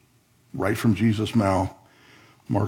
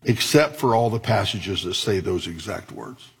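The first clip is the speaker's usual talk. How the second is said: sarcastic. Acted. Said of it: "I add my sarcasm".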